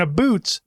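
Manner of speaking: "a boots", vowel as in food; exaggerated Canadian about, as "a boots". Shown as a demonstration. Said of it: "will tell me that you're Canadian".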